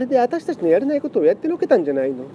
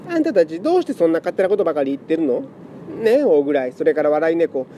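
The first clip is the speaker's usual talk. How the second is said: tearful pleading; 4 semitones higher than usual. Acted. Lament cat pleads emotionally.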